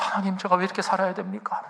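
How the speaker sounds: high, rising plea with 제가 lifted; preacher retelling his desperate prayer, cries it out high; pleading lament. Retold or imitated. Complaining to God, pleading cry rising at the end. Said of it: "하나님 앞에 막 하소연하면서".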